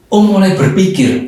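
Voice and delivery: ordinary talk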